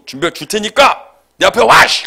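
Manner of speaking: high, loud challenge to the caller; angry yelling. Retold or imitated. Preacher re-enacting his fight with the debt collector, angry yell. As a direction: explode into a re-enacted shout. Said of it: "제가 소리를 막 질렀어요".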